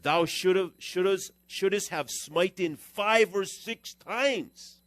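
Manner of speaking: loud, slow, rising scolding read; wrathful prophet. Acted. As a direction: thunder it out like the angry man of God. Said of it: "was wroth with him".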